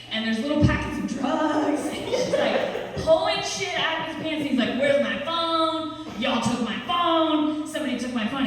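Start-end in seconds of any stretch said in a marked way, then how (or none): 4.8-8.5 frantic. Retold or imitated. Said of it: "more frantic".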